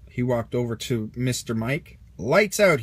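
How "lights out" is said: Sarge announcing. A narrator's reading. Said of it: "he announced".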